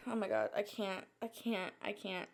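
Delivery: barely voiced, fading "I can't"; losing breath mid-panic, voice dropping away; panicked breathless. Real, not acted. Creator panicking on camera, fading breathless gasps. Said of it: "actually freaking out".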